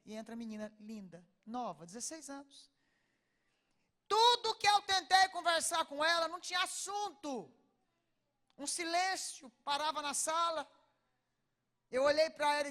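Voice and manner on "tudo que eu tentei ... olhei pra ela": loud. Real, not acted. Telling the audience about the silent girl, loud and raised. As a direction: preach it out to the whole room.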